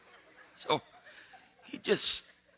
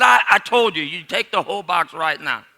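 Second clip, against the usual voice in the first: insistent; 6 dB louder than usual. Acted. Boudreaux insisting.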